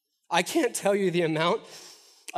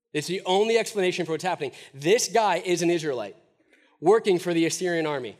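emphatic preaching; 4 dB louder than usual. Real, not acted. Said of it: "preacher driving home his point".

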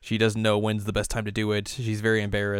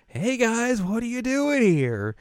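much higher, slow chirpy greeting; mock sing-song hello from Yui; bubbly Yui; 14 semitones higher, 4 dB louder, slower than usual. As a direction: bounce in cheerfully clueless. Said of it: "She runs into the kitchen and is like".

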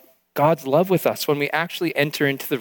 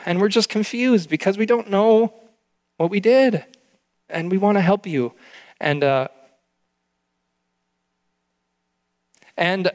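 real tears close behind the words, quoting a loving father; father's tender words, barely held together; emotional, holding back tears; 3 semitones higher than usual. Real, not acted. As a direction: voice lifting as emotion rises. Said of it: "Sorry, I didn't think I'd get emotional".

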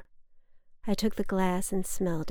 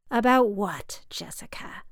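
condescending. Acted. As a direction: belittle the daughter with the question. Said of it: "she said condescendingly".

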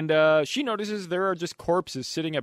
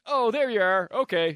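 Renee Zellweger impression; 5 semitones higher than usual. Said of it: "Was that a pretty good impression?".

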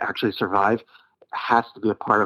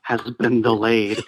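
lightly voiced chipper astronaut caller; a hint of a rambling old caller; Don Pettit impression. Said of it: "lumpy-headed Don called in again".

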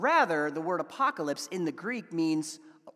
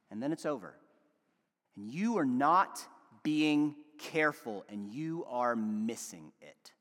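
earnest pleading. Acted. Wife confronting her husband about their children, earnest pleading. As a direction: plead gravely, letting each pause land.

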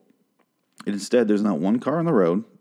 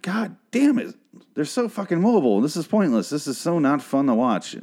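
high, exasperated rant at the screen; high-pitched frustrated griping; exasperated outburst; 6 semitones higher than usual. Retold or imitated. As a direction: throw up your hands at the show, pitched way up. Frustrated viewer voicing his reaction.

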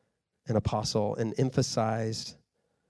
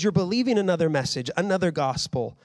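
raised, urgent pleading rebuke; a hint of Paul's anger, pitched up; impassioned rebuke; 5 semitones higher than usual. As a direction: warn them with fired-up passion. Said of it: "He says".

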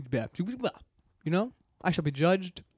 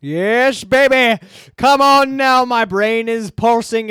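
excited; 4 semitones higher, 10 dB louder, slower than usual. Acted. Hammed-up guessing game excitement.

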